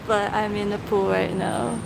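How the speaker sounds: echoey poolside voice; speaking from inside the pool; at an indoor pool. Real, not acted. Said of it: "hope you guys can hear me".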